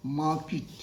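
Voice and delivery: 'मार्केट' as mah-kit, short i; correct pronunciation. Shown as a demonstration. Teacher repeats for learners, kit ending. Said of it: "The correct pronunciation of this word".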